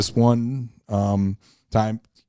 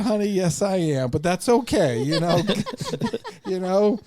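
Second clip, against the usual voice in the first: laughing reply; 11 semitones higher than usual. Retold or imitated. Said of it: "I said".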